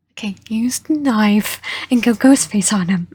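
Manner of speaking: breathy whispered aside to the listener. Real, not acted. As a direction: lean in and whisper the idea.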